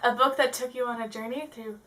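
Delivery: dramatic read-out, drawing out the last words; hammy stretch on "time and space"; theatrical reading. Acted. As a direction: read it like an amateur actor. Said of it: "This is why I'm not an actor".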